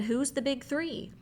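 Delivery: high, slow puzzled question; Randy asks in slow surprise. Acted. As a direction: ask it slowly, baffled and high.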